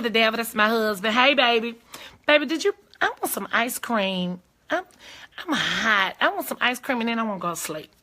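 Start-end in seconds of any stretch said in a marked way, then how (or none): 1.1-7.9 a mild, wheedling whine; whining. Real, not acted. Wife asking her husband for ice cream, whining. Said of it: "that's how I whine".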